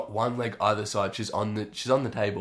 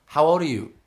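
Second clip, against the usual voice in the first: imitated masseuse, higher and louder; insistent masseuse; 5 semitones higher, 6 dB louder than usual. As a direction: press the question as the masseuse. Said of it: "And she's like".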